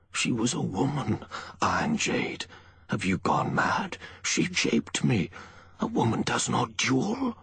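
high, baffled protest; incredulous. A narrator's reading. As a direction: protest in utter disbelief. Baffled man protesting to his accuser.

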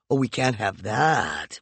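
slow, mocking sneer; mock her with fake sympathy. McCoy mocks Peregrine about her bruise, slow and sneering. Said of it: "McCoy said mockingly".

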